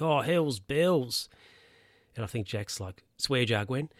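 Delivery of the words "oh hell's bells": mock exclamation. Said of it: "Gwen's like".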